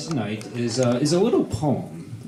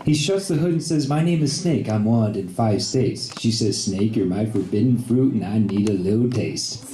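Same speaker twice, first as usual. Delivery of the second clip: poem recital; 3 semitones lower than usual. Acted. Reads a comic poem aloud.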